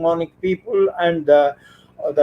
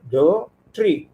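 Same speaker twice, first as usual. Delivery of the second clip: "do tree" as two separate syllables; split into syllables. Shown as a demonstration. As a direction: break "do tree" after "do", then say "tree". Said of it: "two syllables".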